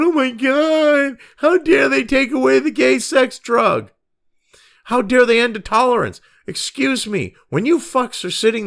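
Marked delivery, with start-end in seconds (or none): 0.0-6.2 mocking whiny outrage. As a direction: ham up their fake outrage, pitched up.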